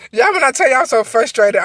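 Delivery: high laughing wail of frustration; laugh-cry out of sheer frustration. Real, not acted.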